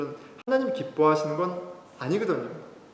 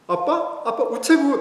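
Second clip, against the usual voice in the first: put-on child's voice; 11 semitones higher, 6 dB louder, slower than usual. Child answering father's question.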